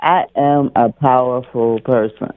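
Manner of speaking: a firmer, mildly emphatic affirmation; like meaning it. Shown as a demonstration. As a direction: say it like you mean it. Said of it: "say it like you mean it".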